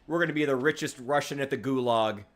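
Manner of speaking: playful put-on Russian accent; jokey Russian comrade accent. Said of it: "worked on my Russian accent".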